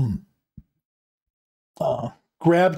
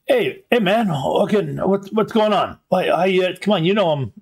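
higher-pitched, casual character voice; lightly voiced guy picking up a call, pitched up; caller on video; 5 semitones higher than usual. Game master playing the man on the comm link, higher-pitched chatty greeting.

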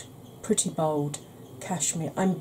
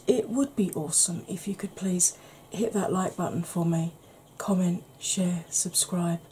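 ASMR whisper. Acted. Whispered outro requests.

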